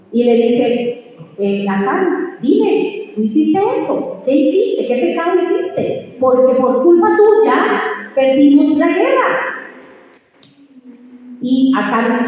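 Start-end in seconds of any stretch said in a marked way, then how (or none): 1.4-9.6 higher, accusing questions; a leader demanding the truth; mild hammed-up interrogation; stern confrontation. Josué confronts Acán before everyone.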